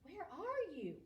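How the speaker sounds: high, loud call into the dark. Acted. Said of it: "called Frog".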